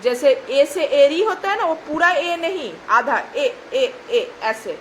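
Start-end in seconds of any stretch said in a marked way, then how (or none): 2.9-4.3 ए said short and clipped, not drawn out; short half ए. Shown as a demonstration. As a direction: say ए as a quick half sound. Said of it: "पूरा ए खींचा हुआ नहीं बोलना है".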